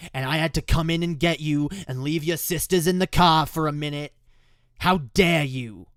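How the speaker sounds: indignant, emphatic scolding; imitated angry dad. Dad berating kid for not waiting out front, angry. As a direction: scold with heavy, punched words. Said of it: "he's basically angry".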